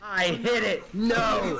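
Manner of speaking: loud, high cry of dismay; real dismayed shout. Real, not acted. GM realizing his mic was muted, loud high dismay.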